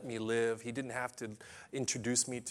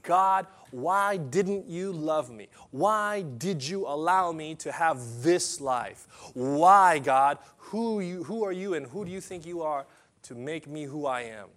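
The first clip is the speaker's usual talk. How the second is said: louder, higher, slow accusing cry; angry pleading at God; 4 semitones higher, 7 dB louder than usual. Retold or imitated. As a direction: hurl the questions up at God. Teen shouting at God, retold.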